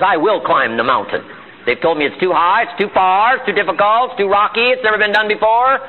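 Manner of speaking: building list of objections, pitch climbing; defiant climber reciting the naysayers' objections; determined resolve. Acted. Determined climber answers the doubters.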